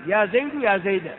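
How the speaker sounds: «زيد» مرة بضم الدال ومرة بفتحها; انطق «زيد» الأولى بالضمة والثانية بالفتحة; ضم ثم فتح. Shown as a demonstration. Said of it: "يجوز وجهان". («زيدُ» ثم «زيدَ» لبيان الوجهين)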